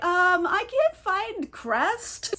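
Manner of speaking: high, slow, hesitant voice; nervous crew member, drawn out; timid crew member. Retold or imitated. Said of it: "One of the crew members is like".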